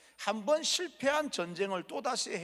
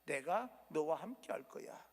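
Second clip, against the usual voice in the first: gentle reassurance; 3 semitones lower, 4 dB quieter than usual. Acted. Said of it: "하나님께서 말씀합니다".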